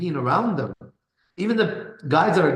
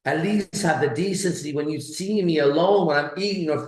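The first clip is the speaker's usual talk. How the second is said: Andrew Tate's thoughts; 4 semitones higher than usual. Retold or imitated. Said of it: "This is what he was thinking".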